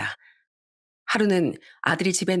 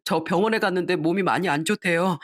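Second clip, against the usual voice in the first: tearful, crying. Acted. Son tells his mother of his illness, crying. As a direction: hold back tears, slowing toward the end. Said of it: "서럽게 울면서".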